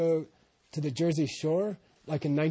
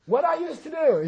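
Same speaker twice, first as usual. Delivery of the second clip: mock old person; 10 semitones higher, 3 dB louder than usual. Old person repeating question.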